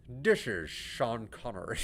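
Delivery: slow, slurred-s Scottish film star impression; a badly faked Scottish star, drawn out; Sean Connery. Gamer imitates a famous actor for laughs, slow bad impression. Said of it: "I can't do a good Sean Connery".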